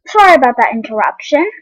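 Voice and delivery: talking while eating; words around a bite of food; mouth full. Real, not acted. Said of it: "Sorry, I'm eating".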